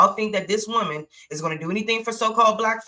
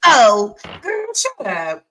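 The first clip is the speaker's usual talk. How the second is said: mock dismissive; 5 dB louder, slower than usual. Real, not acted. Mocking reply to the clip.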